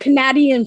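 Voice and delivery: "Canadian" with a short a, kuh-NADDY-un; playful mispronunciation. Shown as a demonstration. Explaining her odd words, "Canadian" as kuh-NADDY-un. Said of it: "I say different things".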